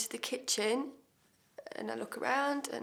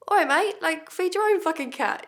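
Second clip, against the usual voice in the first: higher and louder, an indignant snap at the sister; imitating himself telling her off; mock angry retort; 8 semitones higher, 9 dB louder than usual. To the sister at the door, a loud indignant outburst. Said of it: "and I'm like".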